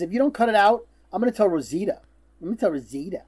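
lightly voiced tattletale threat; mock whine, like a child threatening to tell; whiny kid. Retelling a girl threatening to tell on kids, lightly whiny. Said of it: "a very whiny little kid".

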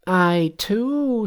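high-pitched, proud Monkey voice; high voice of a cocky monkey king. A narrator's reading. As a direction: pitch it right up, boastful.

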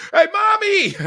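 high-pitched mock child call; needling kid. Kids winding up mommy, high needling call. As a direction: sing out like a pestering kid, laughing. Kids provoking their mother.

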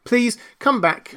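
high, drawn-out entreaty; calling after. A narrator's reading. Alice calling to the departing mouse, entreating. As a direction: call slowly after someone leaving. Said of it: "Alice called after it".

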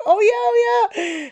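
very high-pitched imitation of a friend; mock realization. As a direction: squeal the dawning realization, imitating her. Friend's realization acted out amid laughter.

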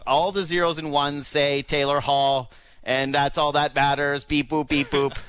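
mock robot voice. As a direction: say it like a beeping computer. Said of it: "And he says".

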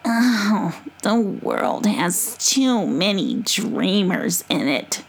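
scornful, slow possum snort. Acted. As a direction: scoff at dreamers like a possum. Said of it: "snorted Mama Possum".

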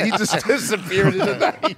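giggling through the words; laughing. Real, not acted. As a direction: laugh as you repeat it. Laughing repeat.

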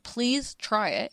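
drawn-out, begging slowly; slow pleading. Retold or imitated. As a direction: stretch the plea out slowly. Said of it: "And I'm like".

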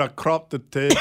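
imitating Scottish accent. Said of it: "He said".

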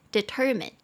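"determine" as de-TER-mine, middle syllable stressed; stress on second syllable. Shown as a demonstration. English teacher breaking down a word for students, middle stress on "determine". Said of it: "中音節在第二音節".

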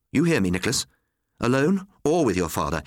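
stern threat. A narrator's reading. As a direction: demand he listens. Mother threatens son Nicholas.

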